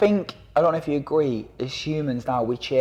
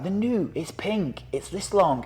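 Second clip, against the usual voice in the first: much higher, louder over-the-top ad voice; mock hyped advert; 7 semitones higher, 6 dB louder than usual. Knife advert on TikTok pitching to kids, hammed-up hype. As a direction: sell it like a cheesy TV ad. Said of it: "it's like".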